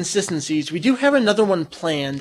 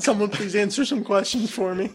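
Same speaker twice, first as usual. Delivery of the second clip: after laughing hard; 4 dB quieter than usual. Real, not acted.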